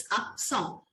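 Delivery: अक सौ joined as ak-SON, nasal ending; slow teacher's model of अक सौ, no final t; French pronunciation. Shown as a demonstration. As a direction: say the French word accent as अक सौ. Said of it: "so it's सौ".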